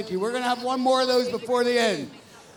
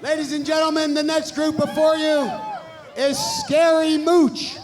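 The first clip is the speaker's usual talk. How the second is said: announcer shout; 3 semitones higher than usual. Real, not acted. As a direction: draw out the name. Host announcing.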